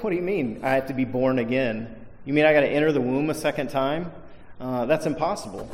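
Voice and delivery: mildly mocking, scoffing question; a light touch of scorn at the idea; sarcastic. Preacher reading Nicodemus as sarcastic, mild scoffing tone. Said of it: "he's being sarcastic".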